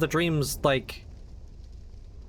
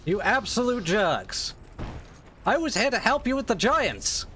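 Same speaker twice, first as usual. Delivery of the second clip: indignant; 6 semitones higher, slower than usual. Real, not acted. Yelling at hostile enemies.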